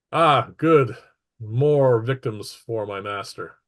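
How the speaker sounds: gloating like a tinny robot villain; tinny Starscream voice. Acted. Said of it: "tinny Starscream voice".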